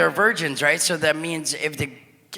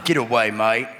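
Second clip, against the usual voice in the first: low, badly faked Scottish accent; poor imitation of a Scottish nobleman; 6 semitones lower than usual. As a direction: attempt a clumsy Scottish brogue. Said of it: "That's my bad accent".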